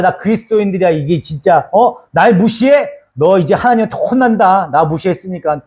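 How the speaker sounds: a hint of a proud Christian taking offense; mildly indignant, threatening God's punishment; lightly voiced self-righteous believer, half-mocking; arrogant churchgoer. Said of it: "막 이렇게 얘기하잖아요".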